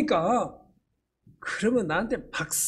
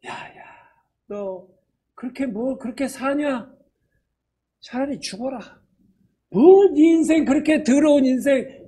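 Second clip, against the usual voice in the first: devil's taunt; 2 semitones higher than usual. Retold or imitated. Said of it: "마귀가 슉 하고".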